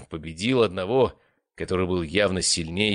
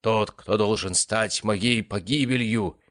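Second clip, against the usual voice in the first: pompous; 3 semitones higher, slower than usual. Acted. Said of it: "прочитал сценарист пафосным голосом".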